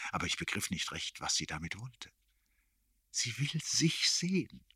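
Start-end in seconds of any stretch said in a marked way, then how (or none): 3.1-4.6 slow, high-pitched confidential whisper; close whisper. A narrator's reading. Erik standing very near the narrator, whispering. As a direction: whisper right into the ear, drawn out. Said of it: "flüsterte er ganz nah".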